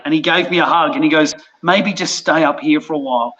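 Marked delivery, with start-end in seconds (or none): 1.6-3.3 gentle suggestion. Retold or imitated. Skipper consoling him.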